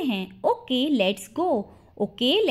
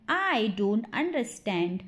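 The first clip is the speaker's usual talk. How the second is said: drawn-out, careful demonstration; slow model repeat; 2 semitones lower, 4 dB quieter, slower than usual. Shown as a demonstration. Teacher repeats the sentence for English learners, slowly. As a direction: say it slowly, word by word.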